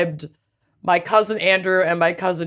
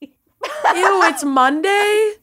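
disgusted surprise; 10 semitones higher, much slower than usual. Real, not acted. Dismay at learning it's Monday.

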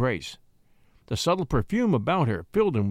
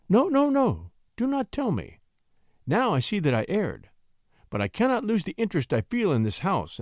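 protesting lady; 3 semitones higher than usual. Acted. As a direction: stop him, then dream aloud. Lady protesting, then wistful.

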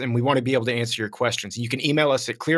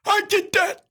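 growled, strained shouting impression; Alan Graff. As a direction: bellow like you've been chewing on nails. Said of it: "He talked like he'd been chewing on nails".

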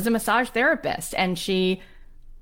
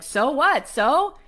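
high-pitched, incredulous retold mother; mock unimpressed mom; dismissive retort; 8 semitones higher, 4 dB louder, slower than usual. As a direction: toss back a challenge, pitched up. Mother brushing off daughter, retold.

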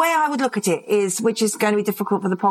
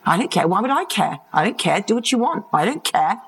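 put-on teen defiance. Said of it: "my strap line all through my teen years".

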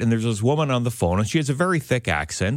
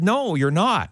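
retold contradiction; 8 semitones higher, slower than usual. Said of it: "And I said".

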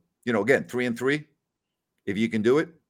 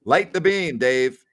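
rallying cry; 4 semitones higher, 4 dB louder, slower than usual. Real, not acted.

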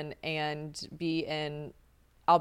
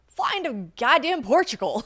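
emphatic rant; 7 semitones higher, 7 dB louder than usual. Retold or imitated. Retold emphatic rant about trip effort.

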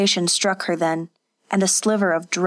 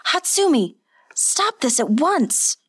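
commanding shout; 8 semitones higher than usual. Acted. Seizing her wrist, commanding.

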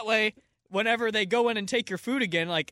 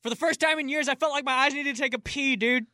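dudebro voice; 8 semitones higher, 4 dB louder than usual. Acted. Kyle persona.

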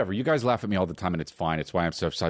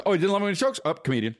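God's pronouncement; 9 semitones higher, faster than usual. Acted. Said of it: "God goes".

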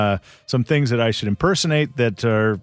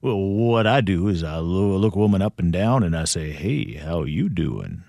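Joey impression; 4 semitones lower than usual. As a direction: croon the pickup like a famous singer. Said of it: "When did Joey turn into Elvis?".

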